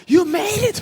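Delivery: imitating a very high-pitched excited cry; excited shout. Imitating elderly pastor meeting the robber, excited shouting. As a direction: squeal it like an overexcited old pastor. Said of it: "막 소리 지르시는 거예요".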